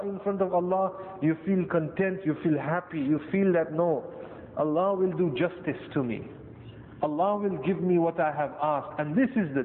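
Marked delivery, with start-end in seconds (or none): none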